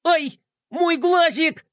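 high, slow, whiny squeal; Melkotron's whiny wail. A narrator's reading. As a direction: wail like a spoiled little villain. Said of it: "завопил монстр голосом Мелкотрона".

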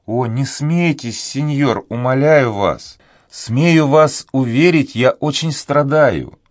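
high, slow, close to tears; tearful pleading. Acted. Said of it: "сказала она со слезами на глазах". (со слезами, умоляюще)

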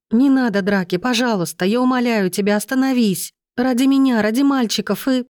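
high, rising plea near tears; wife begging husband to stop the fight; desperate begging. A narrator's reading. Anya begging over phone.

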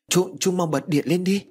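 high, urgent scared plea; a frightened girl begging her uncle for light. Acted. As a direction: beg in a panic.

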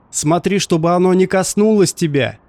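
mildly shouted warning; shouting. A narrator's reading. Harry warns the doctor off the creature, mild shout. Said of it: "кричал он".

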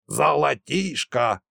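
slow, scornful Золотишко; scornful snort. A narrator's reading. Nikolasha dismisses the old man's greed, slow scornful snort. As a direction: scoff Золотишко as worthless. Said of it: "фыркнул Николаша".

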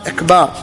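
إكبار with a long "baar"; lengthened ba. Shown as a demonstration. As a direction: stretch the last vowel of إكبار. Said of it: "مد الباء".

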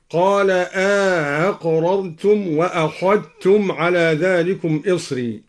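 أأقررتم with the second hamza softened and a short alif inserted between; eased second hamza. Shown as a demonstration. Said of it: "بتسهيل الهمزة الثانية مع إدخال ألف".

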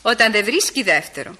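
slow, measured reading from a book; reading aloud. Acted. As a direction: read the maxim out slowly. Διαβάζει δυνατά απόφθεγμα από βιβλίο. (αργή ανάγνωση από βιβλίο)

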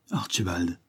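wife leaning on his shoulder, softly sighing his name; tender sigh. A narrator's reading. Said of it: "soupira-t-elle avec tendresse".

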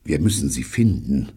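tight, pressed delivery; strained voice. A narrator's reading. Neil to Pycraft after losing contact, strained. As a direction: squeeze the words out under strain. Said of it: "mit gepresster Stimme".

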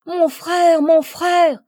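loud, high repeated cry; desperate cry. A narrator's reading. Violette cries for her brother in the fire, desperate. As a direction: cry out for your brother, urgently. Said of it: "cria Violette".

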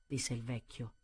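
ordinary delivery

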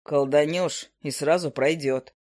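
a grumpy bird drawling down low; low owl familiar. Acted.

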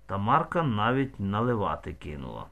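usual speaking voice

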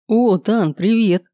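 cheerful, lifted hello; lightly acted friendly welcome; smiling greeting. A narrator's reading. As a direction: greet him brightly with a smile. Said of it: "заулыбался Гео".

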